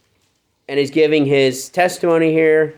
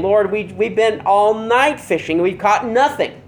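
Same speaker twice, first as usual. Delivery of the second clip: a whiny, higher protest, drawn out slowly; mock complaining; 5 semitones higher than usual. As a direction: sigh it out like a tired fisherman grumbling at the Lord. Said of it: "I always envision him complaining".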